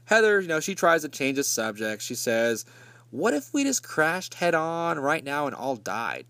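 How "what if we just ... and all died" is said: put-on girlfriend voice. Heather changing the subject.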